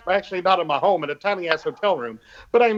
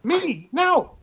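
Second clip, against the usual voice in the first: mock offended; 4 semitones higher than usual. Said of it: "I am personally offended".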